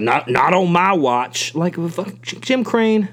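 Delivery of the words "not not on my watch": slow, sneering parody of a pompous owner; slow mock-heroic sneer; mocking self-righteous boss. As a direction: drag it out like a smug hero. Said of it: "he was just acting like".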